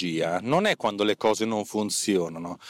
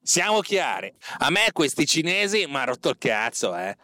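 angry boss rant; 5 semitones higher than usual. Acted. Boss ranting at employee Gualtiero.

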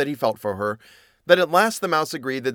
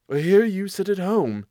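high, lifted cat voice; chiding cat; 7 semitones higher than usual. Acted. Cat chiding the stay-at-home mouse, high and lifted. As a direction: needle like a scolding cat.

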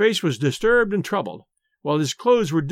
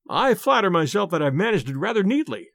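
proud. Acted. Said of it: "the detective answered proudly".

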